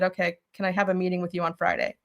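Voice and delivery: soft, contained retold reply; restrained calm. Employee replays asking her boss for a meeting, restrained. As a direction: keep your temper, voice held down. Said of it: "Don't get angry and mad in that moment".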